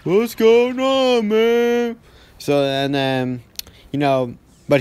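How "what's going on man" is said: high, slow drawn-out confused voice; dazed friend. Retold or imitated. Half-sedated friend asking what is happening. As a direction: sound half knocked out and lost.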